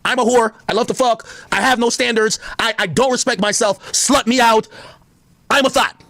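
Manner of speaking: high, mocking girly voice; mock girl voice. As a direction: ham it up as a shameless woman. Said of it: "these girls tell you".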